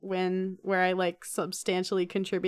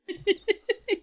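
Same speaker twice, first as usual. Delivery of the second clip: creepy laugh; 13 semitones higher than usual. Real, not acted. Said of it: "Okay, that was creepy".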